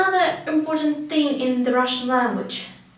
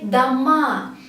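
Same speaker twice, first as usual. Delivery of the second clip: "dama" with stress on the closing "ma"; stress on last syllable. Shown as a demonstration. Teacher explaining houses, "dama" stressed on the end. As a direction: push the second vowel of "dama". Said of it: "if the stress goes to the last letter".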